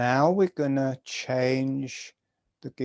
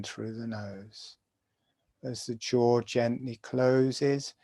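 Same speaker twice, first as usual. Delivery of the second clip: guided meditation. Acted. Teacher guiding students through jaw breathing, calm meditation voice. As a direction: talk them gently through each breath.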